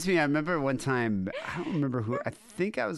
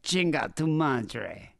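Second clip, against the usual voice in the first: Spanish phrase; much slower than usual. Retold or imitated. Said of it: "sounds much more menacing".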